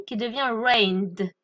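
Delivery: "rained" said slowly, ending on a clear D, reynd. Shown as a demonstration. Teacher slowly models "rained" stressing its D ending. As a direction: draw out "rained" so the final D lands. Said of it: "faut bien prononcer le D".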